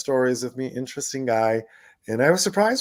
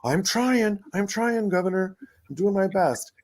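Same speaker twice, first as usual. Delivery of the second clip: eager protest; 9 semitones higher than usual. Retold or imitated. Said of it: "And I go".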